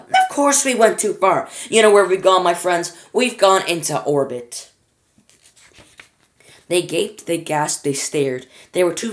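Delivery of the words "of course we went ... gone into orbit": excited. Acted. Wonka excitedly announcing.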